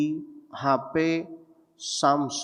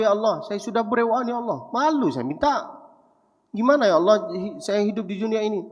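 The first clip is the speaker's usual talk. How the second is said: retold tearful prayer; 5 semitones higher than usual. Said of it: "nangislah saya".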